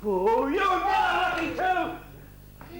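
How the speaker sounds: high, loud, slow panicked cry; frightened cry. Acted. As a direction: yelp it out in fright. Frightened by the ghosts.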